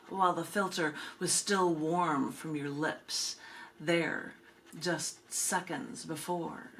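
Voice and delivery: measured, lilting spoken-word delivery; unhurried poem recital with pauses between lines; poetry reading. Acted. Reads last poem, And I'm Wondering.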